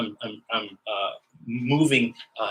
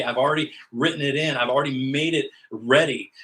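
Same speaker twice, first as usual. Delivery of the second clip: impassioned God voice; 3 semitones higher, 4 dB louder than usual. Acted. Preacher voicing God insisting the work is done, fervent and loud. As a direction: proclaim each line harder, like a preacher at full force.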